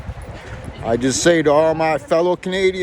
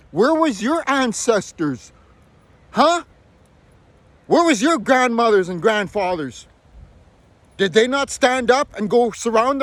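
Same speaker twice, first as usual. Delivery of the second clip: angry demand; 2 semitones higher than usual. Real, not acted. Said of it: "That's why I'm angry".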